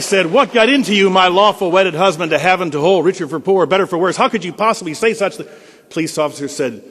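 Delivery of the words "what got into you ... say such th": loud, high indignant scolding; angry wife. Acted. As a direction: scold him like an outraged wife. Wife scolding husband in joke.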